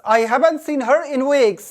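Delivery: very slow, careful read falling at the end; slow example sentence. Shown as a demonstration. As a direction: stress on haven't for learners. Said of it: "कौन सा American". (धीमा उदाहरण वाक्य)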